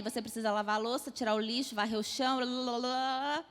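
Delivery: rapid-fire list trailing into la-la-la; machine-gun nagging. Acted. Parent heading out to work piles chores on child, machine-gun fast. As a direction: rattle the chore list off quickly into a drone. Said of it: "igual uma metralhadora".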